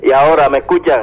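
phone line sound; over the phone. Real, not acted. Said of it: "tenemos una llamada en directo".

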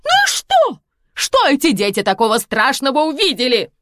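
very high, loud shocked squeal; mother dismissing her daughter; indignant diva mother. Acted. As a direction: shrug it off like a prima donna.

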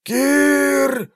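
high, drawn-out creature cry; questioning drawn-out call. A narrator's reading. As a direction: stretch the word as a query. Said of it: "вопрошающе протянули пятеро".

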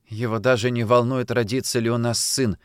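ordinary delivery, nothing marked

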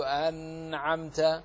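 أنعمت with the noon held too long, slow; demonstrated error; overlong noon. Shown as a demonstration. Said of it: "فلا نقول".

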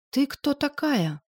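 медленно, выше, изумлённым выдохом; выдохнуть вопрос в изумлении; изумлённо. A narrator's reading. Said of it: "изумлённо выдохнул он". (изумлённый выдох, медленно и высоко)

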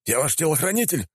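высокий возмущённый выкрик; возмутись как обиженный слуга; возмущённо. Acted. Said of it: "возмутился мужик". (возмущённый телохранитель)

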